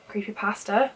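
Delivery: creepypasta in a British accent, questioning rise; British-accented creepypasta, tried out as a question; own British accent. Shown as a demonstration. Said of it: "sounds really wrong in my accent".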